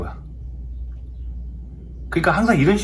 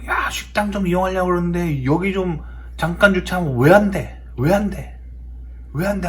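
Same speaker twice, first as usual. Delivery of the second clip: retold angry shouting; 4 semitones higher than usual. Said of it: "하면서 막 싸우는 거예요".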